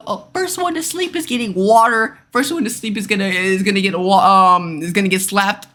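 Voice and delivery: high-pitched mock sleepover prankster. Imitating boys plotting sleepover pranks.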